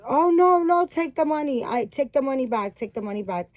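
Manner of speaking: high, loud burst of protest, settling as it goes; retold flustered insistence. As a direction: imitate her urgently insisting, pitch jumping up then easing. Retold insisting on refunding money.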